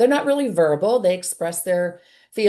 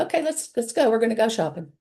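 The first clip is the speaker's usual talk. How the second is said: calm and cheerful; 4 semitones higher than usual. Shown as a demonstration. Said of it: "You're calm, you're cool, you're collected".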